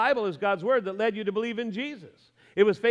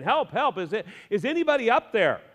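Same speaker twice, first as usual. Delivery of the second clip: mildly louder, higher cry for help; yelling for help; 4 semitones higher, 4 dB louder than usual. Acted. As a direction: call up from the cliff. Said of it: "Jack began yelling for help".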